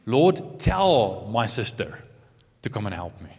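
controlling. Acted. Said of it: "She starts telling Jesus what to do".

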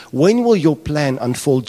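mildly acted plea, drawn out; pleading prayer. John waiting on God's redemption, pleading. Voicing John's longing prayer to God.

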